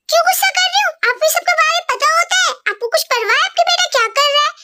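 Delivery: indignant mom snapping at dad; angry retort. Acted. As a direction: throw his question back at him. Mom snaps back at dad.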